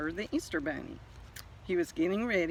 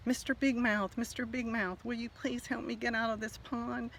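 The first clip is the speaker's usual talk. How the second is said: lightly raised small egg voice pleading for help; a hint of a little egg begging; 6 semitones higher than usual. Little egg calls to the bass fish for help, mildly pleading. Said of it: "The little egg cried out".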